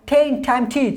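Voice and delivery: টেন টাইম টিচ with a puff of air on each ট; aspirated T. Shown as a demonstration. Teacher drills learners on aspirated T words. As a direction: breathe out on every ট. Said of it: "এইভাবে করে".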